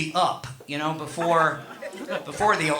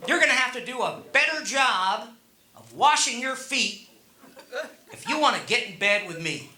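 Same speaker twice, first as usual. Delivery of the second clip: higher, measured imitation of a wife; wife laying down terms; 6 semitones higher than usual. Wife to husband getting ready for bed, imitated firm demand. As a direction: lightly imitate a wife's firm demand, pausing between phrases. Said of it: "My wife says to me".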